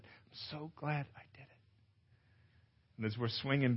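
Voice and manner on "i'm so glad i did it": soft repeated relief. Retold or imitated. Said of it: "Annika saying over and over".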